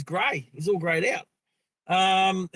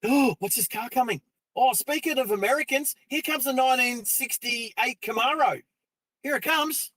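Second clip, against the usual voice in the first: excited; 5 semitones higher than usual. Real, not acted. Car approaching excitedly.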